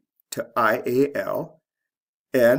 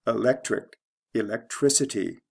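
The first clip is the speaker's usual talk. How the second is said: eLECtric, then elecTRICity; shifting stress. Shown as a demonstration. Teacher reading the pair, stress moving to third syllable in electricity. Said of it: "This goes from the second to the third syllable".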